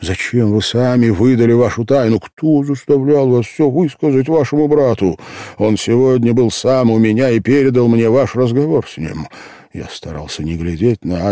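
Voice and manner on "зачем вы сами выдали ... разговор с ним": raised, louder voice, hammering out the blame; bitter vehemence. A narrator's reading. Man blaming the girl for revealing their secret, bitterly vehement. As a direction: accuse her fiercely, higher and louder. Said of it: "повторил я с каким-то ожесточением".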